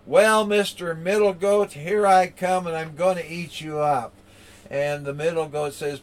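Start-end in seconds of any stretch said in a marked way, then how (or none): 0.0-4.1 raised, loud storybook troll; mock menace, announced with relish to the prey; threatening troll. Troll threatens middle goat.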